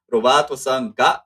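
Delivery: "Roberto-san ga" said with loud emphasis; stress on Roberto. Shown as a demonstration. Teacher marking the subject for students, emphatic "Roberto-san ga". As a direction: put the weight on "Roberto-san". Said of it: "the emphasis is on Robert".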